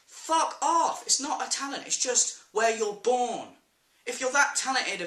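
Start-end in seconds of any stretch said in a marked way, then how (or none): 0.1-3.5 high, indignant dismissal; heated telling-off; exasperated rant. Real, not acted. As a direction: snap back angrily, then slow down to spell it out. Dismisses the vloggers angrily.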